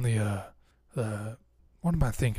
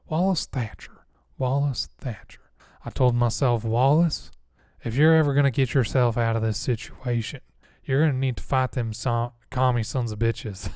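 put-on softer, airy Southern old-timer; lightly drawled veteran voice, the name near-whispered; Wallace Thatcher. Veteran giving himself a war pep talk, soft Southern voice. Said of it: "little bit of a softer tone".

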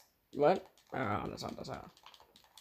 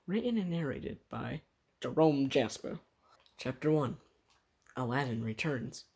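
story title announcement. Acted.

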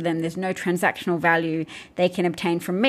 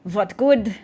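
Russian accent; 3 semitones higher, 3 dB louder than usual. Shown as a demonstration. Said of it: "I'll try and do a Russian accent".

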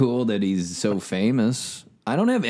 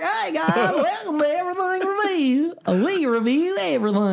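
put-on high childlike voice, much higher; young singer impression. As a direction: play a high-voiced young boy. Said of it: "He'd be like".

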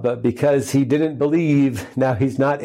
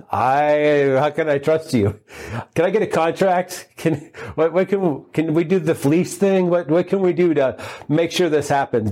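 mock fearful; 3 semitones higher than usual. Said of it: "in fear".

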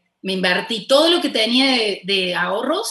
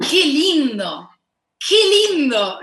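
delighted sigh; 5 semitones higher, 3 dB louder, slower than usual. Retold or imitated. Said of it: "me pasa de verlo y decir".

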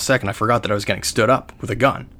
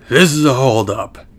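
slightly raised mock robber announcement; lightly voiced mugger; 3 semitones higher, 4 dB louder than usual. Retelling a street robbery, lightly voiced mugger. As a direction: imitate a stick-up man, only lightly put on. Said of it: "all I hear is".

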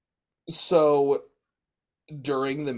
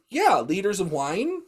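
deadpan punchline; 9 semitones higher, 8 dB louder than usual. Retold or imitated. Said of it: "And I said".

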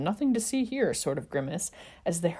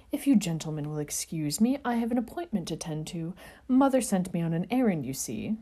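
a hint of sugary politeness; sweet, vacant polite gentleman; saccharine politeness. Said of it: "saccharine politeness of his words".

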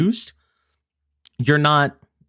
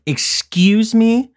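high, slow, drawn-out disbelief; shocked; 11 semitones higher, much slower than usual. Retold or imitated. Granddaughter reacting to the haggle, shocked. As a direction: stretch it out in shock. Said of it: "I was like".

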